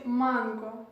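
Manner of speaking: "mango" as Russian "MAN-ga"; added final vowel. Shown as a demonstration. Teacher showing mango in Russian, added final vowel. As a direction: say MANGO with stress first and a short vowel added at the end. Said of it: "on ajoute, euh, une voyelle".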